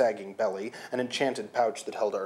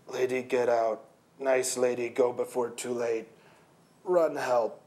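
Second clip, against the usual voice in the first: lightly voiced broken bull speech; dazed bull. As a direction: struggle for each word. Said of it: "He bellowed softly".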